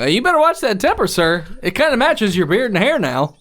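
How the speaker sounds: high, quick sneering warning; mocking taunt. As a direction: taunt him as you leave. NPC taunting the player.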